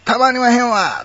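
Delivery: emphatic Kansai exclamation with long wa; Kansai dialect. Shown as a demonstration. Giving the Kansai original for comparison, emphatic Kansai accent. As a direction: cry it out in broad Kansai intonation. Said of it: "これ関西弁ですけど".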